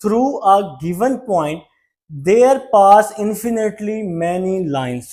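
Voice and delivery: each word slow and spaced for note-taking; slow dictation read. Shown as a demonstration. Teacher dictating a definition to students, slow and spaced. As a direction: read it out slowly so students can copy. Reads textbook statement slowly.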